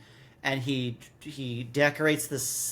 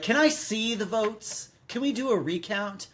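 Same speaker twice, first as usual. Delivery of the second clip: put-on girl pleading; 7 semitones higher than usual. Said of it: "Liz goes to the teacher and is like".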